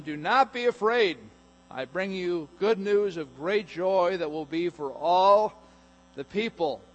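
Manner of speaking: loud and high, proclaim it from heaven; angel's proclamation. Acted. Angel's announcement read out loud.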